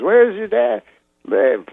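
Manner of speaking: rising Cosby question; a hint of Cosby; lightly voiced Cosby. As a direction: ask it high like Cosby. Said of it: "He goes".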